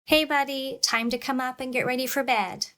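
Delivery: sweet, patient call up the stairs; kind positive tone. Retold or imitated. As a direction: parent kindly calling son up to bed, friendly. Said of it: "I used a very kind, positive tone of voice".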